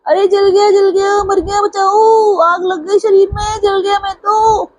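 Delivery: high, panicked cries of being scalded; screaming in pain. A narrator's reading. Scalded Qazi screams at his servant, high panicked wail. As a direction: wail it high like burning water hit you. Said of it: "काजी जी चिल्लाए".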